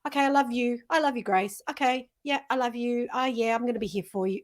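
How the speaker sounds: half-hearted. Shown as a demonstration. Brushing off the mirror words without meaning them. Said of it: "You gotta say it like you mean it".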